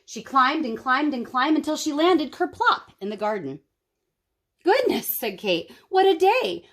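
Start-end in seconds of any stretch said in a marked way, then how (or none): 4.6-5.2 put-on surprised girl. Kate exclaims after climbing down. 5.9-6.7 relieved exclamation. Acted. Kate exclaims after climbing down.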